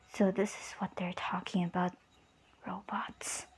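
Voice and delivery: low, hushed inner voice; whispered thought. Retold or imitated. Izumi privately realizes what she is seeing, whispered thought. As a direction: murmur it softly to oneself. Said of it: "is thinking".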